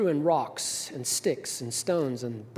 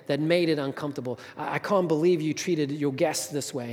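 mildly angry scolding, slightly raised; berating; 2 semitones higher, 4 dB louder than usual. Acted. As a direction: act out an indignant guest berating the servant. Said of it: "he berated her".

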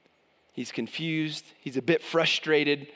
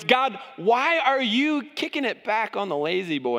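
mock complaint; 5 semitones higher than usual. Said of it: "In other words".

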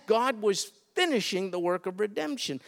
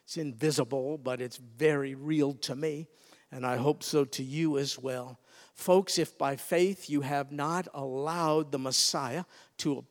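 lower, softened earnest preaching; solemn appeal; 5 semitones lower, 5 dB quieter than usual. Real, not acted. Preacher asks the congregation which blood is theirs, solemn and hushed. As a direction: bring it down to a quiet, heartfelt appeal. Personal testimony and appeal to listeners.

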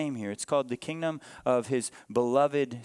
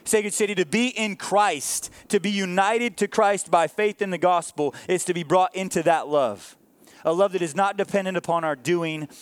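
raised, driving sermon delivery; emphatic preaching; 3 semitones higher, 4 dB louder than usual. Real, not acted. Preacher telling the church of the Father's love, emphatic preaching. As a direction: preach it with firm, punched key words.

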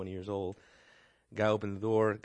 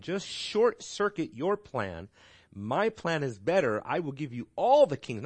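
a hint of tempter; 4 semitones higher, 4 dB louder than usual. Satan offering Jesus the kingdoms, lightly coaxing. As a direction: sell it like a smooth deal.

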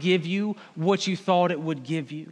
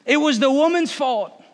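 higher, louder whiny protest; Adam shifting blame; 5 semitones higher, 5 dB louder than usual. Acted. Adam answering God, whining loud and high. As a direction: push the blame away like a caught kid. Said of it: "The man replied".

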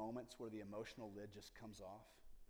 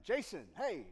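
friendly call; 7 semitones higher, 11 dB louder, slower than usual. Retold or imitated. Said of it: "if you see him in a crowd".

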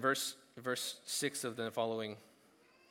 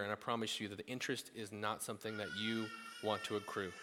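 softer, voice near tears; a real catch of emotion in the warning; choked up; 3 semitones lower, 5 dB quieter than usual. Real, not acted. Preacher warning his congregation.

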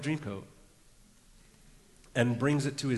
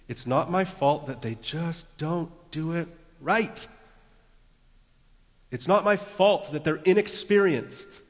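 raised, indignant self-justification; exasperated excuse; 5 semitones higher, 5 dB louder than usual. Acted. Preacher voicing a critical spirit, exasperated and louder. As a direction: protest the blame, voice climbing.

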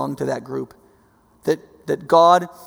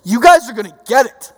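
loud, high preaching shout, "you need to" hammered; fiery prophet; 8 semitones higher, 9 dB louder than usual. Retold or imitated. Preacher voicing the fiery prophet warning Jerusalem, loud shout. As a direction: thunder a warning at the crowd. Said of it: "The fiery prophet who's like".

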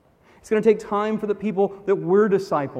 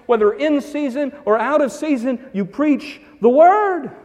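stress; 5 semitones higher, 4 dB louder than usual. Acted. Preaching climax.

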